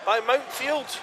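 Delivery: lively play-by-play. Real, not acted. Live play-by-play build.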